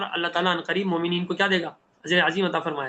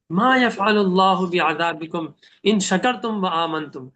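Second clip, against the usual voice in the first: slow, loving recitation of the verse; tender recitation; much slower than usual. Shown as a demonstration. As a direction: recite it as a gentle plea. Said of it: "بڑے پیار سے سمجھا رہے ہیں". (پیار بھری آہستہ تلاوت)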